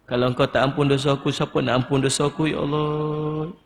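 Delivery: pleading prayer, climbing in pitch; acted plea for forgiveness; demonstrated pleading. Shown as a demonstration. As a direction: confide regret to God, rising as it goes. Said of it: "Merayu, merintih dengan Allah".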